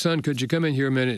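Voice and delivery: ordinary talk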